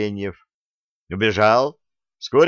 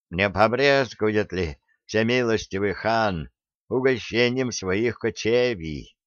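put-on toothless old man. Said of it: "кашлянув прошамкал старик".

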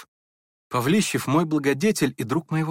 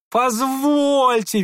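very high, slow, drawn-out squeal; piercing high drawn squeal; 11 semitones higher, 5 dB louder, much slower than usual. A narrator's reading. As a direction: shriek the word out long. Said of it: "визжал Ипполит".

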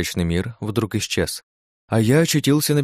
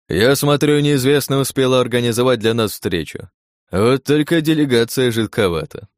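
higher, louder voice muffled inside a helmet; muffled under helmet; 4 semitones higher, 3 dB louder than usual. Acted. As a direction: speak as if through a closed helmet. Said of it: "Голос его из-под шлема звучал глухо".

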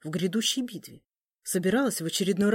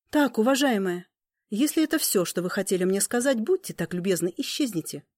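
businesslike; 2 semitones higher, 4 dB louder than usual. Acted. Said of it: "деловито проговорила Элина".

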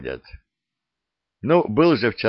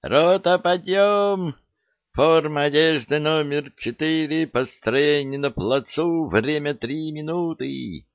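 shouting orderly; 7 semitones higher than usual. A narrator's reading. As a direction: bellow the wake-up order. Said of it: "проголосил дневальный с тумбочки".

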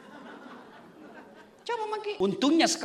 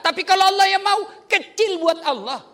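preaching emphasis; 9 semitones higher, 7 dB louder than usual. Acted. Preaching climax about God's power.

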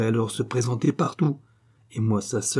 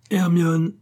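loud, high bellow of a name; booming call; 8 semitones higher, 5 dB louder than usual. A narrator's reading. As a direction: call his wife across the house. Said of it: "de cette voix retentissante".

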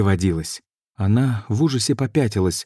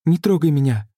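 frightened shout; 8 semitones higher than usual. A narrator's reading. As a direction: keep him off with your voice. Sorceress backing away, magic flaring.

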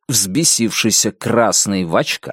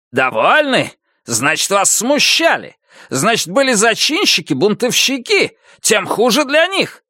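shrieking furious major; 10 semitones higher than usual. A narrator's reading. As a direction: shriek the accusations down the line. Major accuses rebels.

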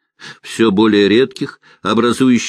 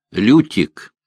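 usual speaking voice

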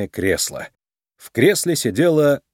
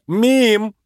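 high, urgent exclamation; crying out; 11 semitones higher, 4 dB louder than usual. A narrator's reading. Nick cuts Judy off before she reveals herself, crying out. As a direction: blurt it out to cut her off. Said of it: "вскричал Ник".

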